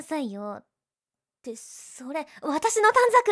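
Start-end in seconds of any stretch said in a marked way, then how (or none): 2.4-3.3 high loud panicked yell; panicked shout. Acted. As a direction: cry out in panic. Panics as her card is taken.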